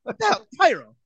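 high, squeaky disbelief; mock outrage. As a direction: protest in a very high, laughing-stock outrage. Mock outrage over daughter's pyro.

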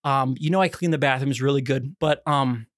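halting, delicate bad-news call to the boss; careful wording. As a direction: break it gently, pausing before the awkward word. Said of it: "I chose my words very carefully".

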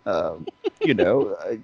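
soft, sly, sleazy host offer; teasing the friend about his bacon, softly and slyly. Retold or imitated. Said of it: "I'm like".

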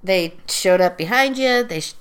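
talking between sips; while sipping a drink. Real, not acted. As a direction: drink in mouth. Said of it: "Sorry, I'm drinking seltzer".

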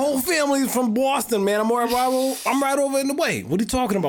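put-on indignant Boston-Irish accent. Defending his Boston family, indignant Boston accent. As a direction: argue back in a Boston accent. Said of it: "That sounds like an Irish".

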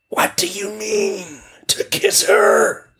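very high, slow mocking whisper; ironic question. Whirlwind mocking the witch's plan, high and ironic. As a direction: sneer at the idea. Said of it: "a whirlwind asked ironically".

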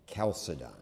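Chalcedon with a K at the start, KAL-suh-don; hard K. Shown as a demonstration. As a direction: model Chalcedon with Ch said as K. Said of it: "which is pronounced K".

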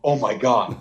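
awestruck, barely able to breathe; imitated stunned fan. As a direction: play a fan frozen in awe. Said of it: "would lose the ability to breathe".

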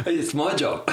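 1 laughing. Real, not acted. Laughing repeat of punchline.

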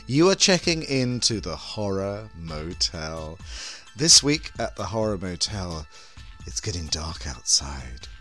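sultry horror hostess, slow and low; femme fatale. Acted. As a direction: purr it like a vampy hostess. Hostess opening the show.

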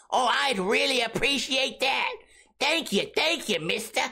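put-on high, polite begging kid voice; old-timey kid begging a stranger to buy alcohol; pleading underage kid. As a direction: play a sweet kid asking a stranger for a favor. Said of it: "I don't know if that's how you would talk to them".

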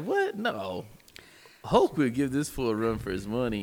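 mildly outraged retelling of a fan's reaction; indignant disbelief. Retold or imitated. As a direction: protest it in mock outrage. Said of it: "that made me very angry".

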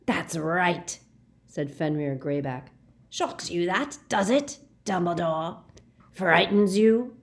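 mild rasping taunt; light leering rasp; taunting werewolf. Acted. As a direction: goad the old man. Greyback taunting Dumbledore.

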